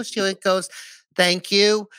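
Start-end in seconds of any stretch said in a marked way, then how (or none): 1.1-1.9 high, slow, put-on mother voice; hammed-up mother with a made-up accent; exaggerated mom impression. Son mimics mother thanking him, exaggerated accent. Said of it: "She doesn't sound like that at all".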